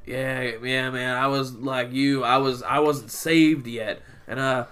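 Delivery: preacher impression. Coworker imitates customer confessing his past, preacher impression. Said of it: "He's like".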